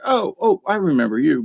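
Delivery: very high "oh, oh" of sudden recognition; the deer suddenly places him, high and delighted; squeaky recognizing deer voice. Retold or imitated. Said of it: "she was like".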